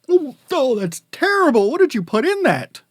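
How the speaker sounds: hammed-up disgust, high and loud; bad acting. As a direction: overact spitting out awful tea. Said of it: "please excuse my bad acting".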